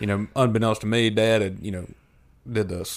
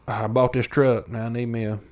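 redneck voice. Acted. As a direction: talk like a good old boy. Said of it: "that's my redneck voice".

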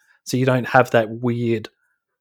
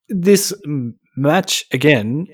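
syllable scramble; 2 semitones higher, slower than usual. Real, not acted. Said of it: "Why can't I speak properly?".

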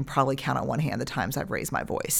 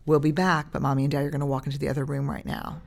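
loving calm; faster than usual. Shown as a demonstration. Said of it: "lovingly and say".

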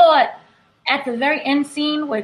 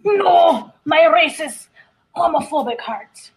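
hammed-up dramatic anguish; mock dying dad; 3 semitones higher, slower than usual. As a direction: clutch your chest, mock anguish. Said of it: "He's like".

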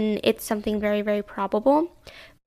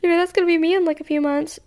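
mock dread; 6 semitones higher than usual. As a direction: play up the fear of becoming the sad song. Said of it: "because I'm like".

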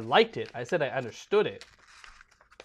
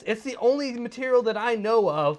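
high, loud, rushed excited rambling; racing thoughts; 10 semitones higher, 9 dB louder than usual. Retold or imitated. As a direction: babble like your brain won't stop. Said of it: "I'm like, I can't stop thinking".

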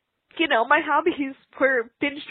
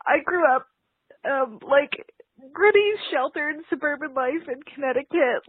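holding back tears. Real, not acted. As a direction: voice catching, fighting tears. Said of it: "I'm trying not to cry right now".

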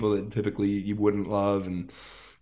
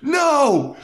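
high, loud, half-laughing cry of despair; laughing mock wail; 9 dB louder than usual. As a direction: wail it while cracking up. Despair over spoiled shirt.

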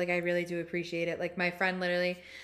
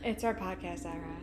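soft whispered slogan; echoed whisper; 6 dB quieter than usual. Pretend. Host echoing the podcast era line, whispering. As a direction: whisper it back to your co-host.

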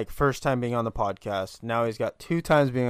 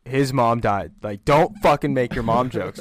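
retold scolding; 9 dB louder than usual. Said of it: "I was like".

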